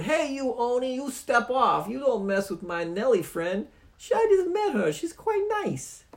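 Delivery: very high, loud cocky challenge; tough squeaky sidekick. Acted. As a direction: puff up like a tiny fighter. Stoogie defiant.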